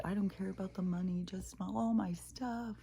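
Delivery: high, mildly whiny retold plea; imitating tearful woman. Robbed woman lamenting her lost stuff, imitated as tearful. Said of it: "she was crying and crying and crying".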